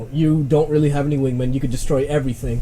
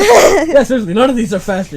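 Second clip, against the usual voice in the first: laughing; 7 semitones higher, 8 dB louder than usual. Real, not acted. Laughing at trick question.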